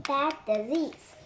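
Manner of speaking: slow eerie hiss. Acted. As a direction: drag out the words with menace. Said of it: "hissed Annie".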